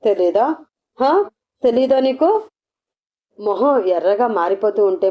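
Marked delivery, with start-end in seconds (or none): 0.0-2.3 a stern, pushing question; grave and stern. A narrator's reading. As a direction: press her hard, voice turning grave. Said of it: "ఒకసారిగా గంభీరంగా devil గొంతు మారిపోతుంది".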